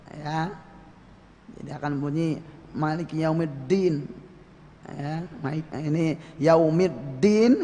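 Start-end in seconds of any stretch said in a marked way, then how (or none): 2.8-4.0 "Yaumiddin" with a thick d, tongue on the palate; heavy dal. Shown as a demonstration. Teacher showing learners a medok dal, thickened d. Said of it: "Kalau terlalu ke langit-langit, dalnya jadi medok". 6.4-7.6 slow "Yaumiddin", tongue on the palate for the d; heavy dal. Shown as a demonstration. Teacher showing a dal pushed to the palate, heavy d. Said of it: "ini sudah dalnya ke langit-langit".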